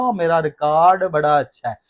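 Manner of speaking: Punjabi-style रिकॉर्ड as ri-KAAD; Punjabi pronunciation. Retold or imitated. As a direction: imitate a Punjabi speaker's long AA in रिकॉर्ड. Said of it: "Punjabi के अंदर". (पंजाबी लहजा, रिकॉर्ड को रिकाड)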